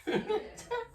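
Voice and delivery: a short high laugh; husband breaking into a quick high laugh during the argument; high burst of laughter. Real, not acted. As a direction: laugh out despite the quarrel. Husband laughs at her remark.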